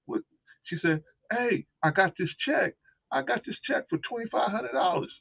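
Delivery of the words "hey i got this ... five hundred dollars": imitating excited sister. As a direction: stretch it out up high, showing off the check. Sister bragging about the check.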